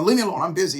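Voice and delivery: acting out a stressed student's snap back; retold irritation. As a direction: wave a friend off, lightly annoyed. Irritated reply to friend, retold.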